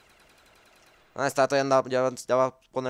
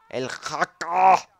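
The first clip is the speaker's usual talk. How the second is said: slow, higher and louder sing-song; drawn-out call; 4 semitones higher, 5 dB louder, much slower than usual. Pretend. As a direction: stretch the name out playfully. Calls name stretched. (llamado alargado y cantado)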